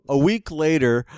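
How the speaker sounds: laughing through a repeat of the words. Real, not acted. Repeating the punchline to a friend while laughing. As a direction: chuckle while saying it again. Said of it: "laughing repeat".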